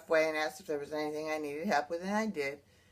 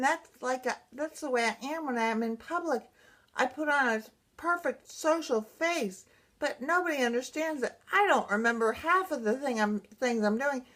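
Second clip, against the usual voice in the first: higher-pitched distressed venting, without sobs; retold sobbing; 5 semitones higher than usual. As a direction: pour out a retold tearful complaint. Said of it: "and I'm still sobbing".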